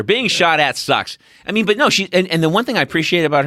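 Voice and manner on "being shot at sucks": very slow, spaced-out bumper sticker line; slow slogan. Retold or imitated. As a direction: read it out slowly like a slogan. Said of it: "there's your bumper sticker".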